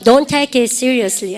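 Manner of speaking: very slow, each word drawn out for the class; slow classroom model line; slow drill. Shown as a demonstration. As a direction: spell it out slowly so students can repeat. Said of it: "시작".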